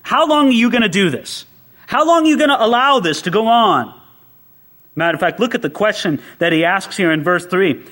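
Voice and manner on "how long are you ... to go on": indignant prayer. Retold or imitated. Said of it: "and you say".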